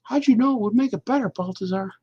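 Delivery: high, excited character asking Baltazar; character's question. Acted. Comic character questioning Baltazar, pitched high. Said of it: "That's how I read it".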